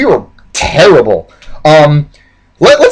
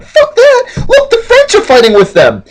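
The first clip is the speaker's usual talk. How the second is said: high-pitched hammed-up yell; defiant shouting. Colonists arguing back at the British, defiant high yell.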